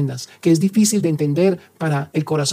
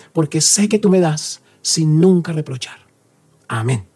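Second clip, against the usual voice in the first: spoken prayer. Acted. Priest leads a spoken prayer.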